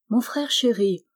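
gentle, tender little frog; a hint of a small, sweet voice. A narrator's reading. Golden frog addresses her brother, lightly voiced sweetness. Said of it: "une douce petite voix s'éleva".

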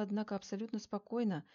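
plain reading voice

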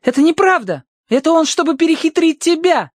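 very high-pitched protest; crying out. A narrator's reading. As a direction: cry out in a high child's voice. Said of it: "крикнула Прошка".

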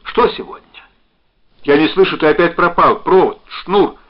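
high, loud, urgent questioning; anxious shouting into the phone; alarmed calling. A narrator's reading. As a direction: cry out as the connection drops. Woman panicking over lost phone connection.

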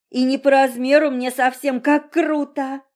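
put-on girl's voice, high and loud with glee; thrilled girl's exclamation; delighted. A narrator's reading. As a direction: gush with delight over the coffin. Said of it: "восхитилась девочка".

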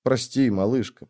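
softly, gently comforting; calm the crying sister; a soft, tender sorry; soothing whisper. Acted. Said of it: "зашептал успокаивающе".

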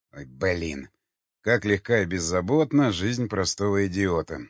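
усталое сетование; посетуй, вздыхая; со вздохом. Acted. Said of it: "вздохнул Яхонтов". (обречённо)

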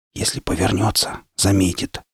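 soft, tense whisper. A narrator's reading. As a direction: keep it under your breath. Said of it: "прошептал я".

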